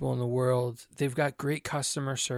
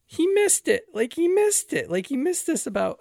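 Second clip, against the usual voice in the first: loud, high-pitched exasperated yell; yelling at the screen; 13 semitones higher, 6 dB louder than usual. Retold or imitated. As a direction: reenact shouting at a screen in frustration. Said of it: "I'm yelling at the screen going".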